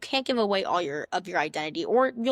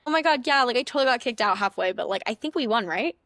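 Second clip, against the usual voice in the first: put-on bubbly girl; 2 semitones higher than usual. Shown as a demonstration. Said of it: "here, let's do this".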